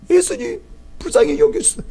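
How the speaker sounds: high, rising plea for mercy; desperate pleading. Retold or imitated. Mother calling after Jesus, high pleading rise. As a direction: keep calling after him, begging. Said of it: "부르는 소리가 너무나 간절한".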